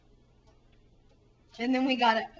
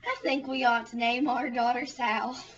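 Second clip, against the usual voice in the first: put-on old Southern woman; 3 semitones higher than usual. Old wife to husband on the porch, hammed-up sweetness. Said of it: "the woman could have said".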